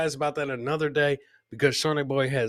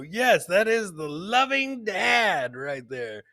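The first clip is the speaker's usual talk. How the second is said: slow shout; 4 semitones higher, slower than usual. Real, not acted.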